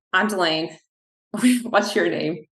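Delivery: friendly intro with a laugh; laughing introduction. Retold or imitated. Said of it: "I was like".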